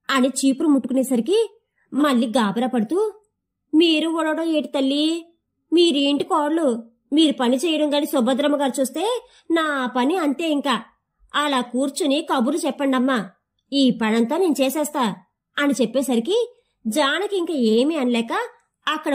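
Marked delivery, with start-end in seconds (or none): 3.7-15.2 a lightly voiced village maid, fussing in a slight hurry; flustered maid. Maid stopping the new bride from sweeping, mildly flustered.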